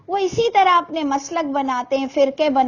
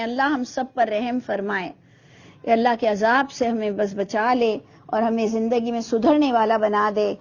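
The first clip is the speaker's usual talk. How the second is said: low, subdued plea to God; murmured prayer; 4 semitones lower than usual. Real, not acted. Preacher asks God's mercy on all, low prayer.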